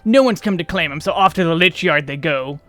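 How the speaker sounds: lightly voiced rustic body-hauler; casual rustic grumble, falling away at phrase ends; folksy weary labourer. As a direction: talk like a plain-spoken country workman. Reads folksy labourer's dialogue in character.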